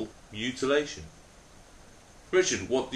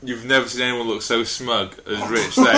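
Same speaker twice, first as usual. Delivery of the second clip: laughing; 6 dB louder than usual. Real, not acted. Laughing while telling.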